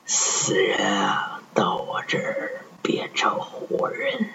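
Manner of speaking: high, slow, eerie ghost voice; ghostly whisper. Acted. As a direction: drag it out like a phantom. Evil doctor's final reveal. (阴森鬼魅的嗓音)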